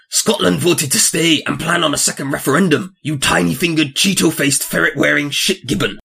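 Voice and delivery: lightly put-on Scottish accent. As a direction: read it with a Scottish lilt. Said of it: "I'll do it in the accent".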